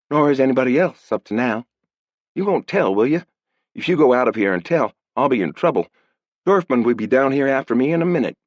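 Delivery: put-on girl afraid of Dorfman; worried girl. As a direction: beg him not to tell. Girl voiced pleading.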